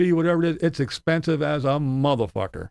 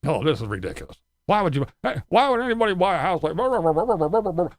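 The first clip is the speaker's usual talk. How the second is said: mocking Tim; 4 semitones higher, faster than usual. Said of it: "That's the shit that drives me crazy with this bonehead".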